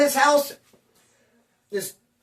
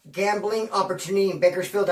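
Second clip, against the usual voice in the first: run together as one word. Shown as a demonstration. Laughing at his own run-on, blurring it into one word. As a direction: slur gambling opportunity in Bakersfield into one long word. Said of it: "I made it sound like one word".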